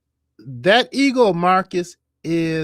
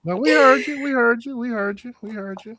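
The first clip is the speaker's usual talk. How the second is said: fading repeated assurance; 9 semitones higher than usual. Real, not acted. Host repeats assurance to caller, fading.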